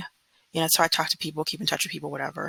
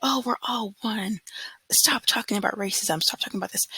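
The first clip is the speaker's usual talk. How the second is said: mocking naive voice; 5 semitones higher than usual. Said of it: "people are still in their little bubble of".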